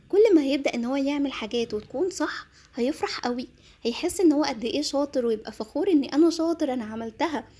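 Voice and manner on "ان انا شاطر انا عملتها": put-on proud child.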